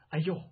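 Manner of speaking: short acted yelp "ouch"; a brief cry on being hit; mild startled yelp. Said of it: "叫了一声".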